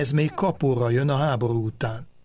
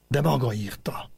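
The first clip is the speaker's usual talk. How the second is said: sziszegve. Acted. (sziszegve, halkan: „De maga írta”)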